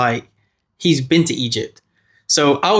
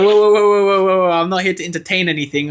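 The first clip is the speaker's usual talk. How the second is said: alarmed professor; 4 semitones higher than usual. Retold or imitated. Professor backing off from rant.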